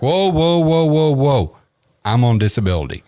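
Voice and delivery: loud, high volley of interruption; mock-panicked punchline delivery; alarmed protest. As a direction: cut in urgently to stop him, voice jumping up. Joke character cuts off the healer.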